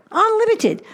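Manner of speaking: Unlimited. cried out high as the peak; soaring emphasis. Acted. Builds the devil's offer.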